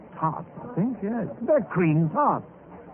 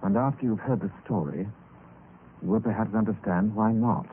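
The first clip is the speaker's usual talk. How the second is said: lower, hushed storyteller narration; story narration; 6 semitones lower, 3 dB quieter than usual. A narrator's reading. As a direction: draw the listener into a frightening tale, lower.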